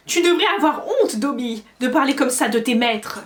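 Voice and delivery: high, loud elf voice, reproachful; scolding squeaky elf. A narrator's reading. Winky scolding Dobby.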